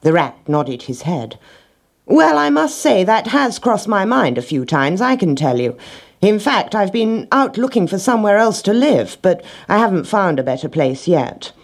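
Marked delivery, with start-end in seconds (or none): 2.1-11.5 lightly voiced higher-pitched rat; intelligent rat, candid. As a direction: confide it in a slightly higher voice.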